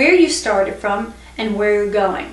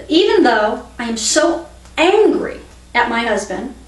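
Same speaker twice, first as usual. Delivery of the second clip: demonstrated anger, stressed "so angry"; mildly angry. Shown as a demonstration. Teacher repeating the tapping setup about her husband, mildly angry. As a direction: punch "so angry" with mild exasperation.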